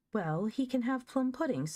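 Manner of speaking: put-on high-pitched, whimpering little boy. A narrator's reading. Joel gives up the puddings to his sister, whimpering. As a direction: give in with a childish whimper. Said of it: "said Joel, whimpering".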